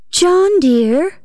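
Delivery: high, tender call of his name; gentlest voice. A narrator's reading. To husband John behind locked door, gentle call. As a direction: coax him sweetly through the door. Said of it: "said I in the gentlest voice".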